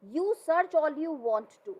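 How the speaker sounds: a loud, slow, hammed-up threat; mock shout. Mother threatening the men with a hot iron, a mock shout. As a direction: dare them, half-shouting. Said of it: "marched on us shouting".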